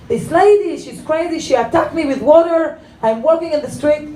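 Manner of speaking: lightly hammed-up accuser; indignant complaint. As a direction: mimic an aggrieved man reporting to police. Acted complaint to the policeman.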